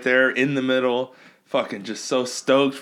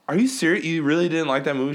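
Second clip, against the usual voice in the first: incredulous; 6 semitones higher, faster than usual. Retold or imitated. Disbelief at friend.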